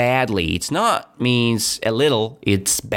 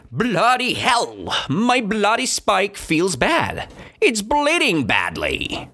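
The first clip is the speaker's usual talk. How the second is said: shouting Spaghetti the Beaver; 9 semitones higher than usual. Acted. Teacher voicing furious Spaghetti from the story, high mock shout. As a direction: cry out high in pained outrage, no real volume. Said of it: "So Spaghetti shouted".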